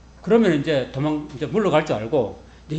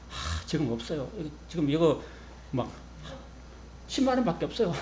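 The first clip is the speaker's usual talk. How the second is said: pleading poverty; 8 dB quieter than usual. Pretend. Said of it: "이렇게 막 사정사정 해야 돼".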